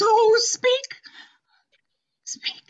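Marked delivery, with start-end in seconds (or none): 0.0-0.9 whispering. Acted. Emilia pleads with dying lady.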